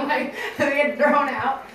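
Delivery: slow, laughing through the words. Real, not acted. Host laughing about coupons thrown away. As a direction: say it while still laughing.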